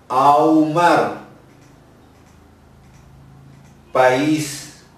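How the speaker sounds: cada palabra suelta con pausa, clara; dictado de palabras. Shown as a demonstration. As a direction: dictar palabra por palabra a la clase. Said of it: "Ahí va". (profesora dicta palabras a los alumnos, pausada y clara)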